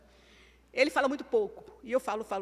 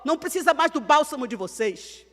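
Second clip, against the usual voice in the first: angel proclaiming; 5 semitones higher, 11 dB louder than usual. Retold or imitated. Angel to the women at the tomb, loud proclamation. Angel's words retold in a sermon.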